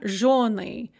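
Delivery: "zhonli" with a stressed o after the hard zh. Shown as a demonstration. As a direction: say "zhonli", stressing the first syllable. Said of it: "that yo in zhonli".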